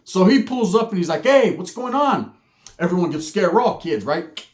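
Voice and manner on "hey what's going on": slow, loud stern challenge; stern uncle. Retold or imitated. Uncle pulling up on fighting kids, slow loud stern call. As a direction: drag it out like an angry uncle pulling up.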